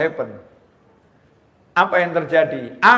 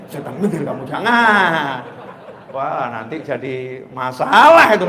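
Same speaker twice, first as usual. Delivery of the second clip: laughing; 7 dB louder, slower than usual. Real, not acted. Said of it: "laughs at own joke".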